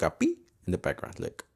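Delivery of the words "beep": short high-pitched mock beep; imitated beep. Podcaster showing listeners the background noise, imitated beep. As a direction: imitate an alarm's little beep. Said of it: "you're gonna hear, like".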